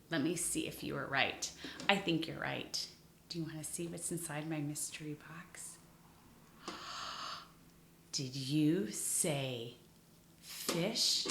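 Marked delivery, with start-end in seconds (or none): 3.3-11.3 fast excited whisper. Acted. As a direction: whisper the teaser quickly. Teases the reveal.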